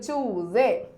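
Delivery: "ചൂസേ" with a z, choo-zay; correct pronunciation. Shown as a demonstration. Teacher models the word for pupils, correct pronunciation. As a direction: draw out "ചൂസേ" with a buzzed z. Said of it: "ചൂസേ എന്ന് തന്നെ വായിക്കണം".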